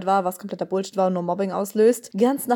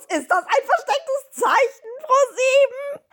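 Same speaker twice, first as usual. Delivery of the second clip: mock suspicious. Mock conspiracy question to broadcaster.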